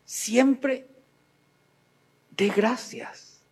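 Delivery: slow, deliberate "Siempre dé gracias"; slow exhortation. Shown as a demonstration. Preacher urging listeners, slow and deliberate. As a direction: lay out each word of "Siempre dé gracias". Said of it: "repeated exhortation".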